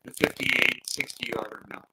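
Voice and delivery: glitchy robotic mic voice; broken-up robot voice over a bad mic. Real, not acted. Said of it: "you sound like a robot is taking over".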